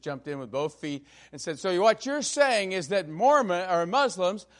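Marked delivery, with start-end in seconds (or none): 1.6-4.5 pushy question. Retold or imitated. Senator pressing the candidate.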